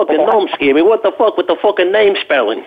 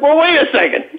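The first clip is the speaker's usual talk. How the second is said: retold reply; 10 semitones higher than usual. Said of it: "I'm like".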